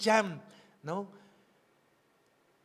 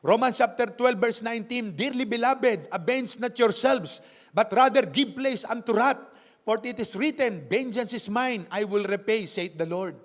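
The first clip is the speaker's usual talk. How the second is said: louder, deliberate Bible reading; scripture reading; 3 dB louder than usual. Acted. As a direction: read the verse out to the congregation. Reads scripture aloud.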